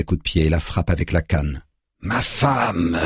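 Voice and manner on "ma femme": drawn-out, higher-pitched wail; restrained bellow. A narrator's reading. Man demanding his wife, drawn-out bellow. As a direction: bellow it long without real volume. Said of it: "beugle-t-il".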